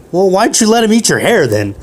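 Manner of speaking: indignant retort. Retold or imitated. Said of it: "He's like".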